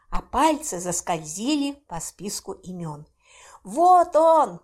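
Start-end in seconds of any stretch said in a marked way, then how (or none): 3.6-4.6 loud, high exclamation of discovery; excited cry. A narrator's reading. Mara cries out finding the client's name. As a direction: shout it as you spot the name. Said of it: "вскрикнула я".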